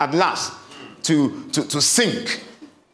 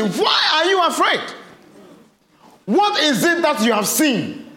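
high, firm, raised rebuke fading at the end; stern Jesus; 4 semitones higher than usual. Acted. Jesus sternly rebuking his disciples, raised and firm. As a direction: scold them sternly, then let it drop. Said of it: "He told them sternly".

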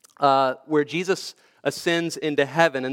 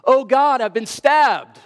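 high, raised mock yell of shock; loud cry; 8 semitones higher, 5 dB louder, slower than usual. Actor Jesus speared with a real spear, crying out loudly. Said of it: "he cried out in a loud voice".

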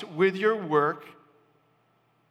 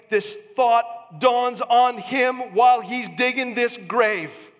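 rising preach; 4 semitones higher, 3 dB louder than usual. Real, not acted. Preacher building to climax.

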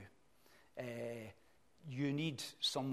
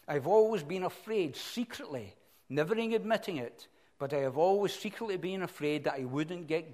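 louder, moved reading aloud, holding back tears; emotional reading; 4 dB louder than usual. Real, not acted. Preacher reading a dying father's last words, visibly moved. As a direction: read it as if it is hard to get through. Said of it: "I'm just getting emotional just thinking about it".

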